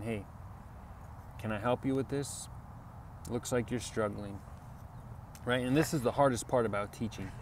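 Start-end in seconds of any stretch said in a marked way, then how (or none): 0.0-4.4 softly offered help, kind and humble; quiet, humble "can I help you"; gentle, humble offer. Shown as a demonstration. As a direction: ease in gently, like a friend lending a hand. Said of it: "you can gently, politely, and kindly".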